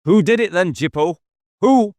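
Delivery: urgent inspector pressing a suspect; pressing question. Acted. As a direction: push him hard for the name. David presses Jippo.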